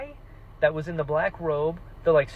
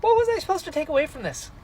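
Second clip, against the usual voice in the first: baffled self quote; 9 semitones higher, much faster than usual. Retold or imitated. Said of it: "I'm like".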